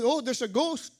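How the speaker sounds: high-pitched acted alarm; frightened disciples. Preacher retells the disciples spotting a ghost, frightened. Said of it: "they cried out in fear".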